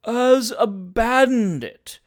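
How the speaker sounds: slow, mild restatement; mildly repeating. Acted. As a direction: say it again gently. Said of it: "repeated Mister Tupman mildly".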